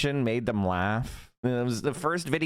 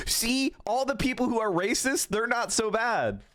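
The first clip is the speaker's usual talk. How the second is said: mock voice continued; 10 semitones higher than usual. Continues the mocking impression.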